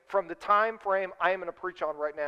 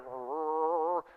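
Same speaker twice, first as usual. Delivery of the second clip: imitated engine; 3 semitones lower, 5 dB quieter than usual. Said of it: "Grandma's like".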